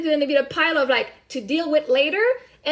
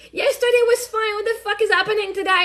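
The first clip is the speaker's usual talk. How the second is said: higher-pitched retold bewilderment; exasperated protest; 5 semitones higher than usual. Parent retells being stuck in traffic, exasperated protest. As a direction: replay a baffled protest at the traffic.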